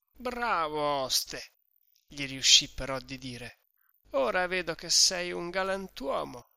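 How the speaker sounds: a hint of drunken cheer, praising the host; Renzo ubriaco. (un accenno di giovane brillo e allegro)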